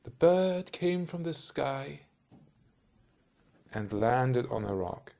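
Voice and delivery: a voiceover painting a picture he can see. Shown as a demonstration. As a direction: point at the bird in your mind and tell it slowly. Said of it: "make that sound like you're seeing it right now, you can go like this".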